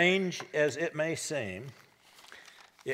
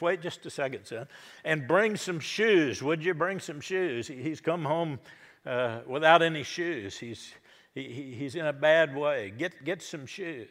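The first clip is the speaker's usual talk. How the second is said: eager father; 3 semitones higher, 4 dB louder than usual. Acted. Father interrupts son, orders shoes.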